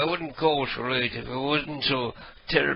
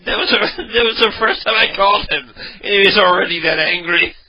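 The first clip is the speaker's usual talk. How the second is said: louder, laughing through the words; laughing while telling; 3 semitones higher, 7 dB louder than usual. Real, not acted. Caller laughs, explaining how angry the victim was. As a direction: tell it while still cracking up.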